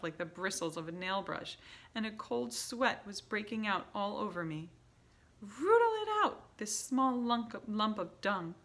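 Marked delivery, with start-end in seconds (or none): 5.4-8.5 very high, loud screech. A narrator's reading. Grand High Witch screeching at her hunters. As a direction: screech the order furiously. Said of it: "screeched the Grand High Witch".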